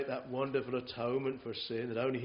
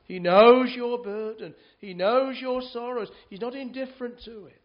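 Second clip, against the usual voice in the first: loud, high proclamation; fervent preaching; 8 semitones higher, 11 dB louder than usual. Real, not acted. To the grieving congregation, the preacher proclaims loudly and fervently. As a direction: proclaim it to the back of the chapel.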